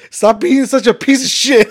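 re-enacted exasperated outburst; heated outburst. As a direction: blurt the insult like a fight boiling over. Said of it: "It got heated".

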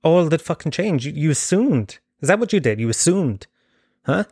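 imitating a cocky telling-off; mock confrontation. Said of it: "I said".

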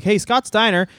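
a hint of a clueless booker asking around; mock bookers' voice. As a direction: bookers mockingly asking why Scott Steiner was never pushed. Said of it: "they were like".

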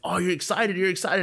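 high, teasing sing-song of friends. Retold or imitated. A friend teasing him about the Oscars, high and playful. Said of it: "hyping me up".

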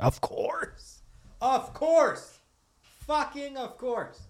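tiny high falsetto; very high, thin, held-back squeal; strained mock agreement. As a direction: squeak it out in suppressed frustration. Mock-agreeable reply to fiance, exasperated.

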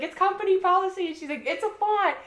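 mock argument. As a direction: snap back like a bickering couple. Quoted couple yelling at each other.

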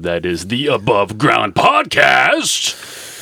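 slow sultry intro voice; sultry narrator. Shown as a demonstration. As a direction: purr the show name slowly. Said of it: "the sultry voice that precedes every episode".

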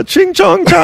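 put-on high, slow silly accent shout; silly mock Asian accent. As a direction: blurt it out as a goofy caricature. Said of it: "Do an Asian accent right now in a silly voice".

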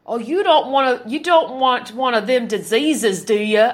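mocking country hick accent; hammed-up rural hick talk. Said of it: "see how they talk like Hicks with this".

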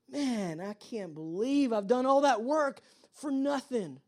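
slow, mildly exasperated mock complaint; frustrated worker. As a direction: drag out the disbelief, lightly acted. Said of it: "that was his frustration".

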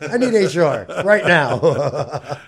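slow, loud, laughing through it; laughing demand. Pretend. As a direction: demand HR while cracking up. Mock demand for HR.

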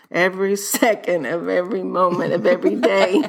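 real laugh breaking into the phrase; laughing self-correction. Real, not acted. Host fixes her muddled line to listeners, laughing self-correction.

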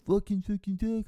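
high, grumbling mock cursing; lightly voiced angry man; imitating a muttered curse. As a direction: do the angry guy swearing under his breath. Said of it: "I can still hear him just go".

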